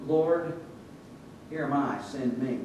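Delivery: humble, unhurried prayer with pauses; heartfelt surrender. Acted. Prophet responding to God from the heart, humbly. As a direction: offer yourself simply, letting the end sink. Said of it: "It was about his heart condition".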